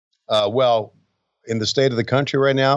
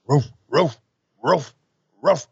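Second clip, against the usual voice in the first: mock dog barking; slower than usual. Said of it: "Georgia boys".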